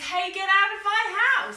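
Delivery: hammed-up cross dog for the children. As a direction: bark it out like a cross cartoon dog. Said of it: "Dog says".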